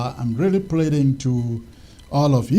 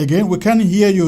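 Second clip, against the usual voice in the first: calling out; 5 semitones higher, 7 dB louder, faster than usual. Real, not acted. Host calling to faint caller.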